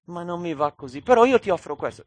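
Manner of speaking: mock bargaining, climbing high and fast; bargaining with God. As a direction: hurry the offer, pushing it up. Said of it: "Non posso dire".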